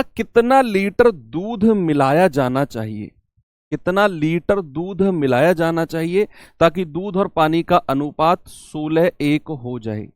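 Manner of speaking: measured teacher read. Shown as a demonstration. Teacher reads question slowly.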